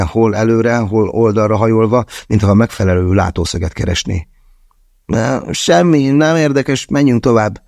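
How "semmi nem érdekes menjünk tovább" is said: high, strained reluctant reply; forced out. A narrator's reading. Andrei reluctantly forces out a dismissal, strained and high. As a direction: squeeze out an evasive brush-off. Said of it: "nyögte ki".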